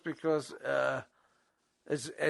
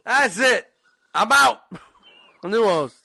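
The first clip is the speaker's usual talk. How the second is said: mock indignant exit; 5 semitones higher, 8 dB louder than usual. Mock storming off show.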